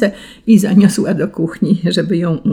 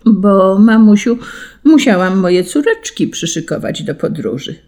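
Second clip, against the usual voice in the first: put-on little girl excusing herself; 3 semitones higher than usual. Daughter answers mother.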